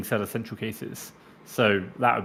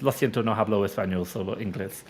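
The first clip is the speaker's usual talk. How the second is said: a light Spanish accent on the stock phrase; casual Spanish accent on a memorised apology; 4 semitones lower than usual. Shown as a demonstration. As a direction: roll out the Spanish like a native, understated. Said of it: "which I can actually say in a really good Spanish accent".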